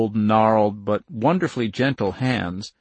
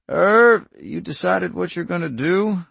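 wife's pointed question; 6 semitones higher than usual. Acted. Wife asks her husband what he will decide. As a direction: press him for a decision.

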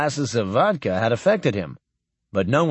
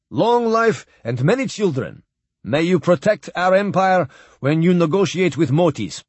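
put-on raised, formal old admiral with a foreign lilt; lightly voiced stately admiral toasting; old Russian admiral; 5 semitones higher than usual. Admiral addressing Captain Blaine at the farewell dinner, lightly voiced and stately.

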